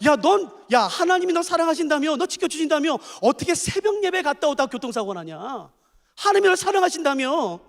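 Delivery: a mild jeering tone; taunting Satan. Acted. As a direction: needle him lightly. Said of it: "가서 친구들한테 말하겠죠". (사탄의 가벼운 조롱)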